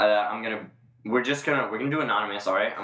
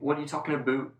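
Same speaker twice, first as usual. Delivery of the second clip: mock Canadian, pitched up; Canadian accent; 4 semitones higher, 3 dB quieter, faster than usual. Friend shows how Canadians talk, mock Canadian accent. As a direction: put on a jokey Canadian accent. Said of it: "what a Canadian accent sounds like".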